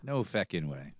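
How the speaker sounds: put-on low, soft Irish accent. Co-host echoes the film's swearing, quiet Irish accent. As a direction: echo it softly in an Irish accent. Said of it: "I like the accent of no feckin'".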